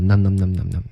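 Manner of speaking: quick repeated "num" like eating something tasty; yummy num-num. Shown as a demonstration. Teacher likening the weak form to eating, quick num-nums. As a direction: rattle off "num" as a nibbling noise. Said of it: "就是东西特别好吃的".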